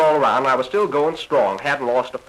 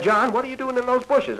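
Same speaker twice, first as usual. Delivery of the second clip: much higher voice of the new bride; bride calling; 12 semitones higher than usual. Retold or imitated. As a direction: call for John from outside the bushes. Bride calls out to husband.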